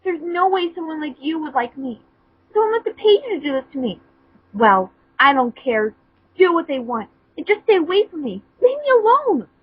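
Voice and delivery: high, rising tearful outburst ending in a yell; tearful shouting. Acted. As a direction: build up to a crying yell. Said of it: "she shouted again with more tears".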